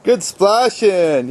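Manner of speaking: slow sing-song encouragement; drawn-out praise. Real, not acted. Dad praising toddler in puddle.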